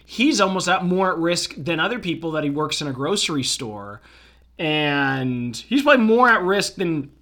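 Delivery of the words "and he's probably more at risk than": talking through a burp; words pushed out on a burp. Real, not acted. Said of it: "pardon me as I burp there".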